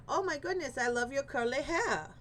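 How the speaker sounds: warm, admiring compliment; kind compliment. Pretend. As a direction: sound delighted by their curls. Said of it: "or would you go".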